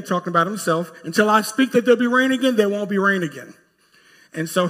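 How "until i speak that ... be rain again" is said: louder, higher prophetic warning; prophet confronting the king. Acted. Prophet declaring drought to Ahab.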